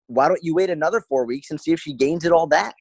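high-pitched, pointed challenge; exasperated retort. Retold or imitated. Acted retort to client.

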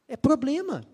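high, loud emphatic warning. Real, not acted. Preacher warning girls about the wrong man, emphatic high warning. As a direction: hammer the point home.

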